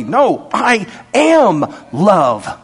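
a slow, firm God, lightly voiced; God speaking slowly. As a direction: let God say it patiently and slowly. God insists.

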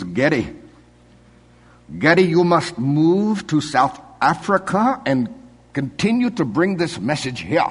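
put-on high, slow Afrikaans accent; big Afrikaans host pleading in Afrikaans accent; imitating Afrikaans accent. Pastor quoting the Afrikaans builder urging him to move, Afrikaans accent. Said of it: "I'm gonna use his accent now".

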